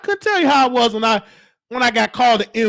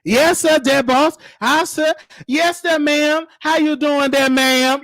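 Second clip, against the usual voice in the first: imitated driver from an old film, pitched up; servile chauffeur; 3 semitones higher, slower than usual. Caregiver addressing residents, mock servile driver voice. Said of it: "talking like the driver".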